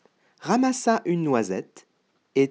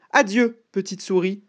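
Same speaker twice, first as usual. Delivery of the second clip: alarmed farewell; 6 semitones higher than usual. Acted. Owl fleeing the gruffalo, high alarmed farewell. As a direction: blurt a high farewell and retreat.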